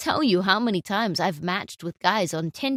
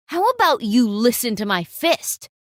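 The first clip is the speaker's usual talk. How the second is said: tough threat; 6 dB louder than usual. Acted. Boyfriend threatens photographer.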